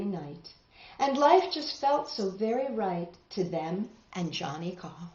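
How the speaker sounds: rhythmic read-aloud storytelling; story narration. A narrator's reading. Teacher reading a tall tale to the class, rhythmic narration. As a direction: read the rhymes with a lilt for kids.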